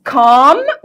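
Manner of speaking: "calm" said with no L sound; silent L. Shown as a demonstration. Teacher showing students the word "calm" with its L silent. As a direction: say "calm" as "kaam", the L left silent. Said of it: "ال ال ما بتتنطقش".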